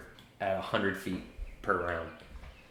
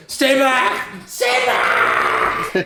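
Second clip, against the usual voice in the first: protective shout; 7 dB louder, much slower than usual. Acted. Rain shouting to keep Frizz away from Wizard. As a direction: yell it high and loud, half laughing. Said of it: "Rain immediately just goes".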